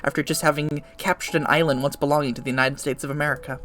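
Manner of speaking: dramatic narrator read aloud; storytelling voice. Acted. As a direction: tell it like a smug narrator. Reads game narrator lines.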